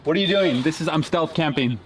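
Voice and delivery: startled, playing along. Caught by stranger at freezer.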